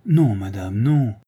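mild, soothing no; gentle reply. A narrator's reading. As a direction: answer her gently, without force. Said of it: "répondit doucement Adrien Sixte".

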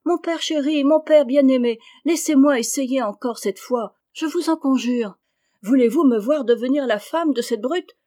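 pleading daughter. Acted. Daughter begs father to let her try.

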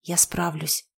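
soft, composed assurance; calm. A narrator's reading. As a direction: say it softly, quite unworried. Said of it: "выглядел на удивление спокойным". (тихо и спокойно)

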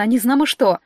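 ordinary delivery

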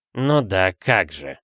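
scoff, sinking in pitch at the end; indignant scoff. A narrator's reading. Servant called deaf-mute protests, indignant scoff. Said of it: "возмутился Фирс".

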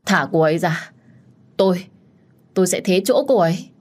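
a terrified husband stumbling over his words; stammering. Acted. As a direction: stutter out the offer, tôi, tôi. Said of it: "lắp bắp nói". (lắp bắp sợ hãi)

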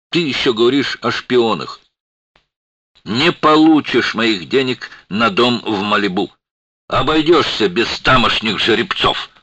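angry tirade. A narrator's reading. Duncan berating Alexis.

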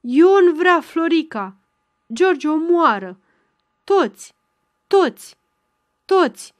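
put-on crippled old woman screaming after Ana, frantic. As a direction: scream the warnings at the top of the lungs. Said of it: "țipând mai gros".

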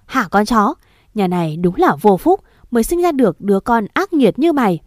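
a father turning on his daughter with rage; angry father. Acted. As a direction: berate her like a disowned child. Father furiously berates daughter.

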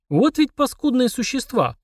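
high, slow astonished remark; surprised. Acted. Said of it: "удивился Фрундарок". (удивлённо, медленно)

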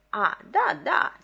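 excited cry. A narrator's reading. Camila crying out in agreement, eager. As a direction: jump in eagerly. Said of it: "strigă Camila".

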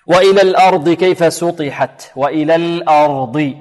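measured tajweed reading, الأرض drawn out; Quranic recitation. Shown as a demonstration. Teacher introduces the next verse, careful recitation. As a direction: recite الأرض with light hamza and heavy ra. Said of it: "الهمزة مرققة والراء ماذا؟ مفخمة".

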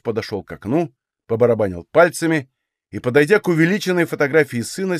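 plain reading voice

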